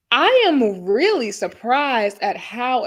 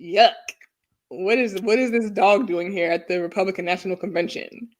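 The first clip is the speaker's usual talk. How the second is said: lightly voiced disapproving mom; 4 semitones lower, 4 dB quieter than usual. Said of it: "She had to be like".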